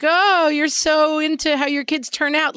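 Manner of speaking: mock criticism. Critic giving moms grief over their kids, mock reproach. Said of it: "get a lot of grief for".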